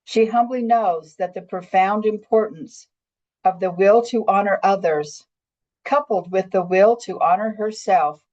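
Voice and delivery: measured, reverent read-aloud with pauses between phrases; story narration. Acted. Woman reading her own visionary monologue as an example, measured storytelling. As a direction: read it as a heartfelt spiritual tale.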